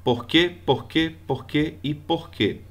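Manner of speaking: "porquê" four times, said the same way each time; same sound each time. Shown as a demonstration. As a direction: show that every "porquê" sounds alike. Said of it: "a pronúncia deles é igual". (mesmo som nas quatro vezes)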